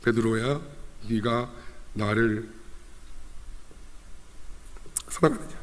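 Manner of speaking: soft, halting question with long pauses; tender questioning. Acted. Jesus gently asks Peter if he loves him, tenderly. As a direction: ask it quietly, word by word.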